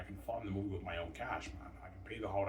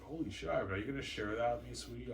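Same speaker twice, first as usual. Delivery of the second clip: lightly voiced girlfriend, higher, coaxing; a hint of a sweet-talking partner after money; wheedling girlfriend; 4 semitones higher than usual. Girlfriend asking him to share the money, mock coaxing. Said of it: "she's like".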